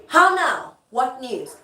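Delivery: high, loud theatrical greeting; Lady Macbeth. Acted. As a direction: call it out as a stage queen. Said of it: "Lady M walks in and she says".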